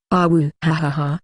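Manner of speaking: laughing playfully while talking. Acted. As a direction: giggle through the warning. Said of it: "Lynch laughed".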